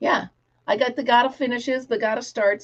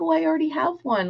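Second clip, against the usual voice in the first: put-on higher, quicker kid's reply; 7 semitones higher, faster than usual. Honest kid refusing a second toy, light kid voice. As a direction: sing out as a kid would. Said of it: "kids are like".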